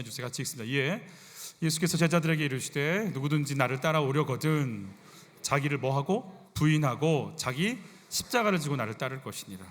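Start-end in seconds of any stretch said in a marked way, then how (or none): 1.6-9.6 measured, emphatic Bible reading; firm pulpit recitation; scripture reading. Acted. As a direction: read the verse aloud for a congregation to follow. Reads scripture aloud with congregation.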